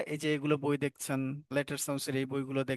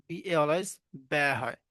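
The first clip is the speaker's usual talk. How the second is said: slow drilling; slower than usual. Shown as a demonstration. Teacher drills a sound rule.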